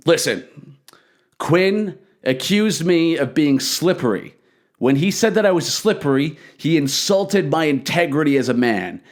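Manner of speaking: imitating a grave, measured public statement; deliberate pauses, each phrase weighted like a proclamation; solemn self-justification. Attacker defending himself before the gathered performers, solemn and defiant.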